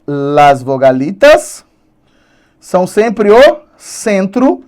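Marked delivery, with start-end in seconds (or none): 0.1-1.6 mock Spanish. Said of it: "as vogais são sempre, então, ó".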